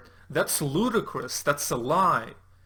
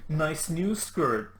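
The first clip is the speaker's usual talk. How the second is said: mock leer. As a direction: ham up a creepy pickup line. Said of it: "he's like".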